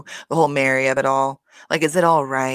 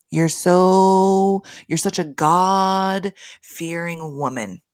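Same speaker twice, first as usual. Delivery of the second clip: sarcastic jab; 3 semitones higher, much slower than usual. Retold or imitated. Mock address to Mary.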